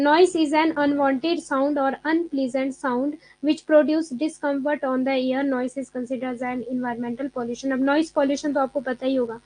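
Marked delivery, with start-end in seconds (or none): 0.0-7.7 very slow, careful reading of notes; slow classroom dictation of a definition; dictation pace. Shown as a demonstration. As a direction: read it out slowly so students can write. Slowly reads definition notes aloud.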